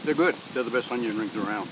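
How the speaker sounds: talking while chewing; words through a mouthful; mouth full. Real, not acted. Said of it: "Now I'm gonna talk with my mouth full".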